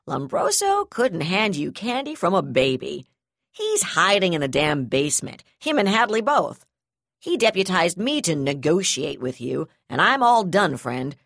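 loud, furious, near shouting; furious ultimatum. Acted. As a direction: bark the ultimatum.

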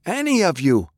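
high, desperate call to a crowd; shouting. A narrator's reading. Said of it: "Francis shouted, turning to the crowd".

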